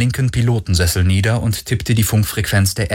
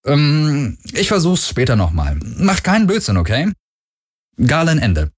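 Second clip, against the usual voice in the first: put-on a higher, forced-cheery young man's voice; Galen's cheerful message; 4 semitones higher than usual. Galen leaves a video message for his missing crew, higher and forced-cheery. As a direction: brighten up for friends who may be in trouble.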